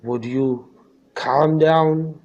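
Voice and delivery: angry father. Acted. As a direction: fire it back as an angry question. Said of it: "said the father angrily". (गुस्से भरा सवाल)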